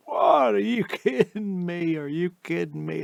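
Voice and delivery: high squeaky outraged monkey; excited monkey voice. Retold or imitated. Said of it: "And the monkey says".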